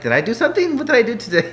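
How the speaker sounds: high, loud mock-panicked husband; worried husband. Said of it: "sometimes I'm like".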